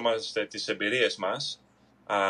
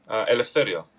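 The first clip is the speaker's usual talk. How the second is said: put-on Spanish accent. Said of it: "από την Dominica Republic".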